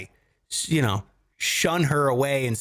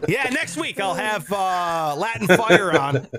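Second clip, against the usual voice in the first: ordinary delivery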